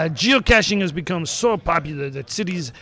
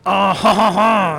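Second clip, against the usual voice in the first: put-on French accent; slower than usual. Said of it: "another voice we can't understand".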